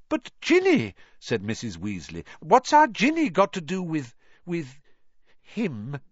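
high, anxious mother's cry breaking off; a worried mother fearing the answer; alarmed plea. A narrator's reading. Mrs Weasley's alarmed maternal plea.

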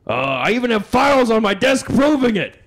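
Alex Jones impression. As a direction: bluster like a conspiracy host. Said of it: "Hey, Alex Jones".

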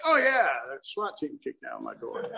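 casual, unfazed mock reaction; nonchalant. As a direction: play disaster as everyday news. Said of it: "When that becomes, yeah, just regular stuff".

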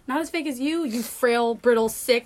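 playful hammed-up catfight; shrill overlapping reality fight. Mock insult fight.

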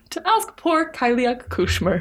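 hushed, breathy secret ask; slow whispered request. Acted. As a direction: whisper it like a timid plea.

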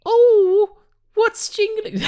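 high breathy mock seductive coo; sexy voice. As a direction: play it up as a teasing seductress. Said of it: "let me do a sexy voice".

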